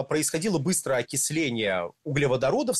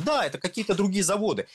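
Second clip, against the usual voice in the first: dry mock agreement, pitched up; ironic confirmation; 6 semitones higher than usual. Host answers his own question for the audience, ironic. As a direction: answer yourself with sarcastic certainty.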